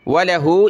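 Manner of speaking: वलहु with a short, unstretched व. Shown as a demonstration. Teacher shows students not to stretch. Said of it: "इसको खींचना नहीं".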